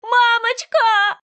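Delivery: very high, loud, slow cry; girl falling into icy water, screaming; child's terrified scream. Acted. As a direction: scream for mom while falling. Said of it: "как кричит моя дочь".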